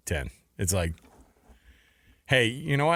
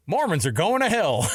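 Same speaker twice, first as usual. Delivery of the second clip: higher, hammed-up pronouncement; mock dire warning; 5 semitones higher than usual. Kid handing over a pamphlet, mock warning. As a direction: declare it like a pamphlet's doom.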